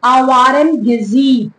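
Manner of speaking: Awaran Gazib, slow and in separated syllables; Arabic pronunciation. Shown as a demonstration. Teacher showing students the Arabic name, Awaran Gazib sounded out slowly. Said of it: "In Arabic language".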